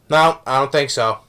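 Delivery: imitated nonchalant seriousness; deadpan. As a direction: deliver it straight, as if entirely serious. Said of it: "he just says it in a deadpan expression".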